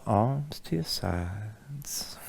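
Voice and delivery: very slow, breathy whisper; whispered cue. Acted. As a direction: whisper the cue, barely voiced.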